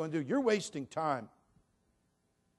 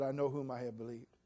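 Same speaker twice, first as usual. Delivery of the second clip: softly quoted; 3 semitones lower, 7 dB quieter than usual. Retold or imitated. Quoting Paul.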